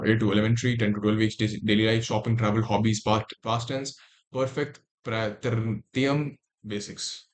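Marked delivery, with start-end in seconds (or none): 3.4-7.2 Russian accent. Real, not acted. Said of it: "where did this Russian accent came from?".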